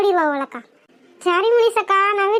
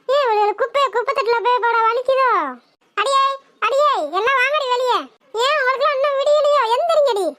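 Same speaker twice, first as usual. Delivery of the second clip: mildly angry scolding, pitched up; angry calling out; 2 semitones higher than usual. Acted. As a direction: call the neighbours out with irritation. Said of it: "எதுக்கு இப்படி கத்திக்கிட்டு இருக்கா".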